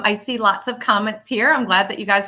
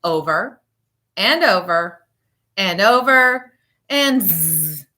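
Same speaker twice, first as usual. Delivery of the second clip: drowsy; 4 semitones lower, slower than usual. Acted. Reading book until falling asleep.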